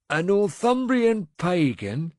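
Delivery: slow, drawn-out words; a slow, weighing remark; slowly. A narrator's reading. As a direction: let each word sink in. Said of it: "he said slowly".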